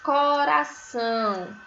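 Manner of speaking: coração stretched slowly as co-ra-ção; teacher presenting coração slowly; slow sounding-out. Shown as a demonstration. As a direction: draw out each syllable of coração. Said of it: "primeira sílaba de coração".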